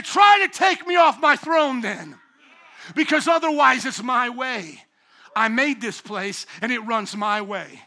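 loud, scornful dare, fading at end; scoffing God. Retold or imitated. Preacher voicing God scoffing at rulers, loud scornful dare. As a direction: dare them from the throne. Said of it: "he's gonna scoff and say".

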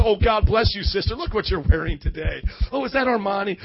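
loud sing-song gushing; hammed-up red-carpet fawning; mock fashion-show gush. Congregation gushing over a sister's outfit, sing-song mock praise. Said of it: "like you're putting on a fashion show".

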